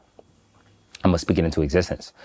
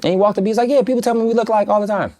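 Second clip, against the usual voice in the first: amused. Real, not acted. Amused account of tall lookalike.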